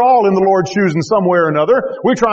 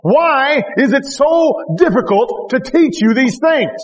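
frustrated; 4 semitones higher than usual. Retold or imitated. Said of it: "the Lord looks frustrated here".

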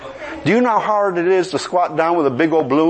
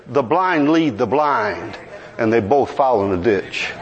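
solemn quote of Jesus; 11 semitones lower than usual. Retold or imitated. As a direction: intone it like scripture spoken by Jesus. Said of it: "he said it like this".

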